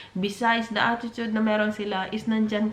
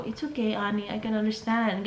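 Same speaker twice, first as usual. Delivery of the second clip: softer, calm and accepting; soft understanding reply; 4 dB quieter than usual. Shown as a demonstration. A calm girlfriend soothing her stressed partner, softly. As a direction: reassure him gently, no pushing. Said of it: "Ganon ang sagot mo".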